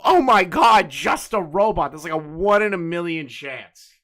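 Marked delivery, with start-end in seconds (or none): 0.0-1.9 higher, louder opening, then drawn out; mock starstruck stranger. Stranger recognizing a streamer at a bar, mock starstruck. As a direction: imitate a fan spotting someone. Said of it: "recognize your voice and go".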